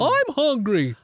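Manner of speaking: very high, loud hungry demon; creepy demonic voice. Acted. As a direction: screech it like a starving demon. Voicing the Furby.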